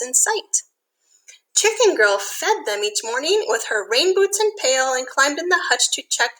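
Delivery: lilting storybook read-aloud; reading to children. A narrator's reading. Teacher reads a rhyming picture book to kids, lilting. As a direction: read the rhyme gently to little listeners.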